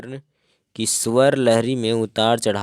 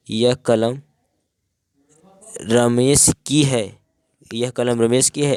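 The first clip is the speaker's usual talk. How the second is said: surprise. Shown as a demonstration. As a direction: say it as if you can't believe the pen is Ramesh's. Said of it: "आश्चर्य।".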